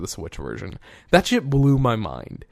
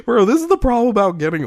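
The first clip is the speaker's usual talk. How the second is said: laughter still in the voice, pitched up; still laughing; 12 semitones higher, 5 dB louder, faster than usual. Real, not acted. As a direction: talk through the end of a laugh.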